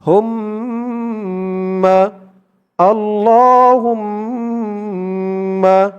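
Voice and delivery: আল্লাহুম্মা chanted very slowly, mim doubled; slow recitation. Shown as a demonstration. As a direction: draw out আল্লাহুম্মা with a held mim. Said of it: "যেমন টান করব". (আল্লাহুম্মা ধীরে টেনে তিলাওয়াত)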